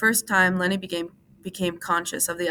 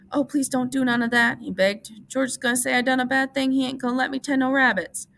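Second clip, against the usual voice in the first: begging; 7 semitones higher, 3 dB louder than usual. A narrator's reading.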